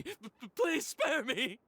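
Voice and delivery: "please spare me!" drawn out slowly, begging; slow pleading. Acted. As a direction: beg slowly, stretching "please". Begging monsters for mercy.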